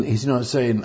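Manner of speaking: usual speaking voice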